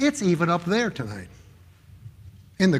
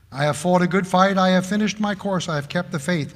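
scripture reading; 4 dB louder than usual. Acted. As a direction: read it out like holy writ. Reads scripture in pulpit cadence.

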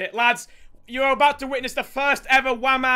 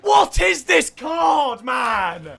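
amazed drawn-out shout; 3 semitones higher, much slower than usual. Real, not acted. Amazed at a card.

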